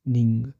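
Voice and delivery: NING with the final ng sent through the nose; nasal ng sound. Shown as a demonstration. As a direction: let "निंग" end in a nasal ng. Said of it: "इंग sound आ रही है ये nasal है, नाक से". ("निंग" का अंत नाक से)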